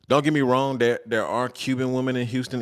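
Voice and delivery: normal talking voice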